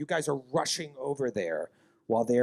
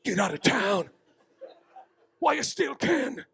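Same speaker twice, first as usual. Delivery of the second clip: menacing warning; 9 semitones higher than usual. Acted. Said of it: "He leans in, he grabs your shirt".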